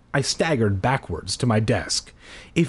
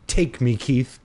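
mock swoon. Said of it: "Just kidding, it doesn't say that".

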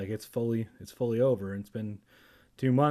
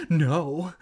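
raised, loud acted wail; 4 semitones higher, 5 dB louder than usual. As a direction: wail the refusal. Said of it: "Evan wailed".

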